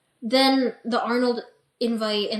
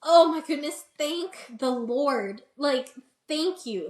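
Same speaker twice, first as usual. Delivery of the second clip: relieved gratitude; 4 semitones higher, slower than usual. Retold or imitated. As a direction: sigh out the thanks slowly. Relief after Adam's encouragement.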